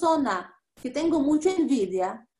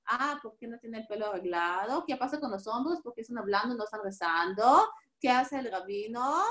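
softer, mumbled nosy musings; gossipy inner voice; 4 semitones lower, 4 dB quieter than usual. Retold or imitated. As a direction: voice the wandering thoughts of a distracted worshipper. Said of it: "rezamos en nuestra cabeza". (pensamientos chismosos en voz más baja)

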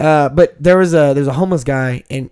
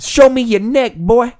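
high-pitched mock challenge; yelling homeless man; 7 semitones higher, slower than usual. Storyteller repeating the homeless man's line, high mock yell. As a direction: imitate the crazy drunk guy's holler. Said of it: "that's what he said".

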